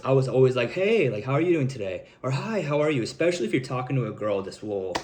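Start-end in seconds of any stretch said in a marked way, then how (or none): 0.7-2.1 high-pitched hey, then settling; higher-pitched voice. Retold or imitated. Coach imitating himself in high school, higher-pitched. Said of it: "I had a higher pitched voice". 2.3-3.0 lightly raised, eager-to-please hi; higher-pitched voice. Retold or imitated. Coach imitating his high school greeting, lightly higher-pitched. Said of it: "I had a higher pitched voice".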